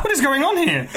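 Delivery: high, laughing, horrified stranger; shocked. Retold or imitated. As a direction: gasp out the shock through laughter. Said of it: "they're like".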